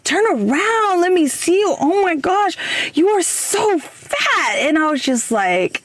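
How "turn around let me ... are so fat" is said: high, gushing voice, drawn out on the last words; imitating the friend. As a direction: mimic a blunt old friend inspecting her. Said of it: "she was like".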